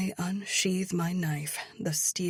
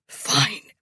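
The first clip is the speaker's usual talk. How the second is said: wincing; 11 semitones higher, 9 dB louder, slower than usual. A narrator's reading. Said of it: "he winces".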